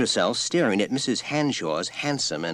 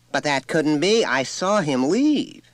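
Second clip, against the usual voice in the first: indignant mother; 10 semitones higher, 6 dB louder, slower than usual. A narrator's reading. Mother protests she saw him leave.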